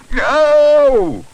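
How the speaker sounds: high, loud yell of pain; long agonised howl. A narrator's reading. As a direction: yell it in agony. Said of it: "yelled Mister Leach".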